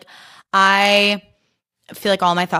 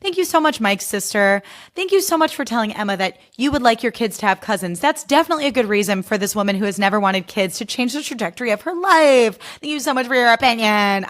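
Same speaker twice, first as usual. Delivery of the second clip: sarcastic thanks; 4 semitones higher than usual. Retold or imitated. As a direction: thank her with biting sarcasm. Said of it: "And I'm like".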